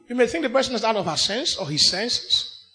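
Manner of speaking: ordinary delivery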